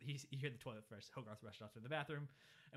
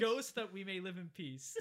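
high, loud, slow mock prayer; covering up with grace; 6 semitones higher, 7 dB louder, slower than usual. Boy finishing grace to cover his outbursts, strained and loud. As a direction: draw out the blessing through suppressed laughter. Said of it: "he has to say things to".

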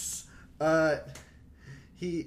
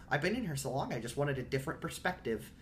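creepy teacher voice; creepy impression; Ben's voice; 3 dB quieter than usual. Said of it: "that is Ben's voice".

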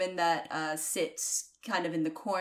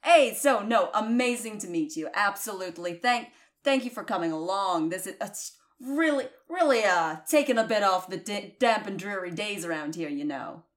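cheerful barkeep; 3 semitones higher, 3 dB louder than usual. Acted. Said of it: "brightened up... and goes".

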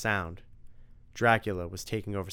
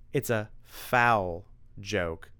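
smug taunt; much slower than usual. Acted. Tim taunting Drac.

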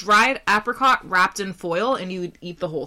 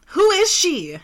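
mock dramatic shout; 8 semitones higher, 4 dB louder than usual. Acted jealous-ex bit.

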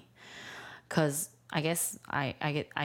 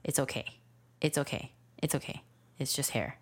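subdued, measured self-reassurance; calming himself; 2 semitones lower, 4 dB quieter, faster than usual. Retold or imitated. Dad retelling talking himself down over hair, calm. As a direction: reassure yourself between little pauses. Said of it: "calm myself down".

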